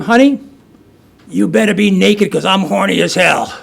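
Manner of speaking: calling out from the door, half-shouted; mock yell to wake the wife; a hammed-up holler on coming home; retold scream. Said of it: "And then I scream".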